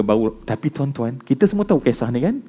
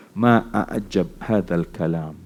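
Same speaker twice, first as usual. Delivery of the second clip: awed recitation; 8 semitones lower, 7 dB quieter, slower than usual. Acted. Umar reciting in awe, story.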